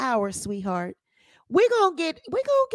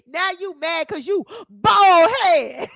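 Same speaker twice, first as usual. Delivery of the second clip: taunting shout; 5 dB louder than usual. Retold or imitated.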